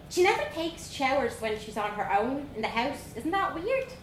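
put-on high, bold Dublin girl voice; young Dublin girl. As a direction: play a cheeky little Dublin girl. Vanessa gossips.

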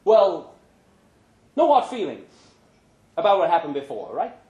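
smooth things over nervously; lightly voiced nervous friend; awkward Pancho.

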